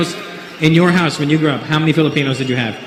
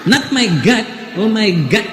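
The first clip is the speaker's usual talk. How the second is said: higher, insistent mock Filipino English; put-on Filipino accent, pitched up; 5 semitones higher than usual. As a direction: imitate a Filipino woman correcting, "God" said as "gut". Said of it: "She goes".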